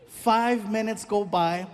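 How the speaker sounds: FIVE MINUTES GO BY, slowly drawn out; slow repeat. Shown as a demonstration. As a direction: stretch "Five minutes go by" for suspense. Repeats the line for effect.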